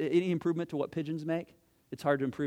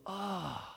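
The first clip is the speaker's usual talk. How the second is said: mock sigh; 6 dB quieter than usual. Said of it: "that universal cry".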